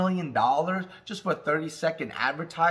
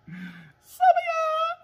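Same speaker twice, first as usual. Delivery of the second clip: drawn-out tease; much slower than usual. Pretend. Mocking drawn-out aside to viewers.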